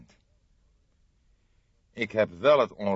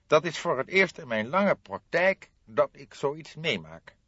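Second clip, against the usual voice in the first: lightly voiced puzzled notary, higher; a formal notary, a touch higher; 9 semitones higher, 5 dB louder than usual. Notary telling the detectives he is baffled, lightly voiced.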